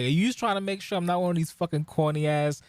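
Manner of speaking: mock suspicious question. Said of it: "I'm like".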